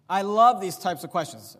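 sarcastic mock enthusiasm. Real, not acted. Preacher on either-or questions, sarcastic. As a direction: gush with irony, leaning on "love". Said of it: "I'm being sarcastic".

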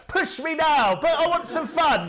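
high, loud whiny brat voice; mock a spoilt kid demanding fun; preacher mocking a bratty child; bratty child mockery.

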